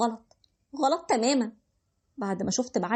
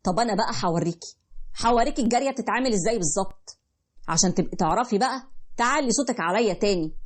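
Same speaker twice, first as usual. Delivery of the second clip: menacing husband. Acted. Husband threatening his wife for raising her voice, menacing. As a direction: warn her coldly before he strikes.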